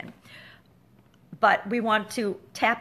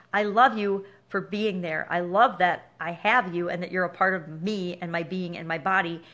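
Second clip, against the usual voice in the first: tender loving words. Shown as a demonstration. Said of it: "I will say in my head".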